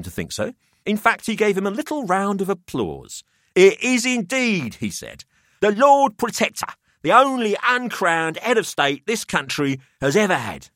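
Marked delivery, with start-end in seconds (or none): 3.5-4.8 put-on higher, smug older host; a wry businessman weighing up the boys; Pelham's voice. 5.6-10.7 put-on higher, smug older host; a wry businessman weighing up the boys; Pelham's voice.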